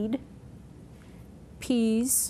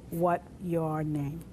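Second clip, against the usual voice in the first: dropped is; 4 semitones lower, much slower than usual. Shown as a demonstration. Teacher showing the sign-order version of the question, slowly. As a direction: leave out is and take it slowly. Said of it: "It's just".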